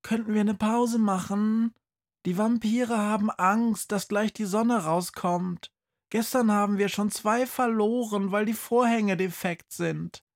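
put-on pale girl's voice. Pale vampire girl to the teacher, worried. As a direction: ask the teacher for a break.

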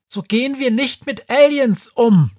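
high, loud angry snap; snapped at. Acted. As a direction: snap it at him, furious. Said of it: "pflaumte sie ihn schließlich an".

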